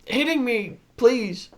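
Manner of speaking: high, slow pleading frog voice; Kermit the Frog. Retold or imitated. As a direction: beg Miss Piggy like a puppet frog. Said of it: "And that, there it is".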